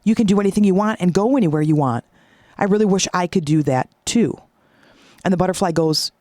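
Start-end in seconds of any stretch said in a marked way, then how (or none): 0.0-4.4 a touch of wide-eyed admiration; mildly wowed, lifting on the first words; awestruck caterpillar. Acted. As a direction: lightly act out an amazed, envious caterpillar. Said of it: "he sees a butterfly come up".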